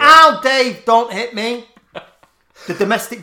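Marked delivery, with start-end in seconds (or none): 0.0-1.7 high, loud mock cry of pain. Wife crying out to Dave, a loud hammed-up yelp. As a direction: yelp it like she's been struck.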